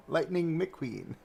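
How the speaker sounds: slow, drawn-out name with laughter; amused. Real, not acted. Streamer repeats the character's name, amused and laughing. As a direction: stretch the name out, giggling.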